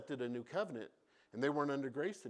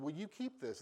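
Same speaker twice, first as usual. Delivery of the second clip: softer, hushed asking; quiet question; 7 dB quieter than usual. Retold or imitated. Moses quietly asking the people, softer. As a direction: ask it gently, almost under breath.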